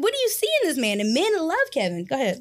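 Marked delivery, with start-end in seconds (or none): 0.0-1.0 high, baffled disbelief at the friend's choice; incredulous question. Retold or imitated. To a homegirl about her husband's fandom, high incredulous disbelief. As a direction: pitch it way up, as if you can't believe it.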